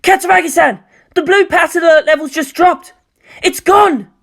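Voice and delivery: high, loud, breathless alarm; panicked technician. Acted. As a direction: report it as if the screen just went blank. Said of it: "his tone hitched up with panic".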